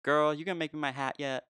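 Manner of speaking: lightly put-on diva friend; sassy imitation. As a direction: tease with a mock-sassy demand. Voicing sassy friend's teasing demand.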